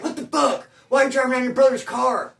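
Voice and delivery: high-pitched mock outrage; retold confrontation. Homeboy catching brother in the stolen car, indignant challenge. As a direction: imitate a friend challenging a car thief.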